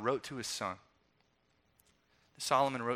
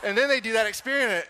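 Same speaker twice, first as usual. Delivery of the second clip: laughing; 8 semitones higher, 6 dB louder than usual. Real, not acted. Still laughing at the story.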